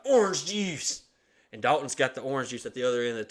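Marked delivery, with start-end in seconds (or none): 0.1-1.0 higher, louder croak; mock mom. Mom asking for orange juice, higher and louder. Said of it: "she's like".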